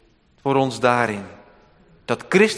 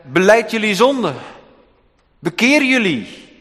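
higher and louder, commanding Jesus; a demanding preacher's cry; stern call to repent; 8 semitones higher, 5 dB louder than usual. Pretend. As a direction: call them to repent from the pulpit. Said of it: "had toch ook kunnen zeggen".

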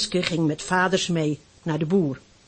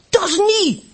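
much higher and louder furious denial; shouting; 13 semitones higher, 7 dB louder than usual. Acted. Hanneske yelling at the boys who call him foundling, furious shout. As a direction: scream it back at the bullies. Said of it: "schreeuwde hij".

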